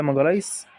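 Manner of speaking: ماجالايس ending in an "s" sound; preferred name pronunciation. Shown as a demonstration. Gamer giving their preferred name, ماجالايس ending in s. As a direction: say ماجالايس with a final s. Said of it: "بس أنا بحب أقول عليه".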